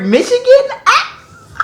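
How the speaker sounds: very high, laughing in disbelief; laughing squeal. Real, not acted. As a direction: squeak the word out through a burst of laughter. Amazed at Detroit in book.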